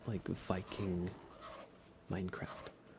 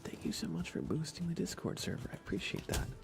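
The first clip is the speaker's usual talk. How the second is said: bright, higher-pitched greeting; light up to greet a friend; cheerful welcome; 8 semitones higher than usual. Real, not acted. Welcoming a Discord booster by name, cheerful and bright.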